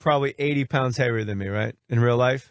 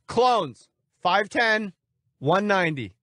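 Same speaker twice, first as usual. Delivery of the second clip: ordinary delivery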